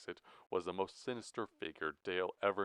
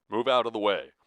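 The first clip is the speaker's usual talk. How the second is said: loud, higher-pitched order; urgent cry; 4 semitones higher, 12 dB louder than usual. A narrator's reading. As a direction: shout to clear the path. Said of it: "Elmer cried to Dale".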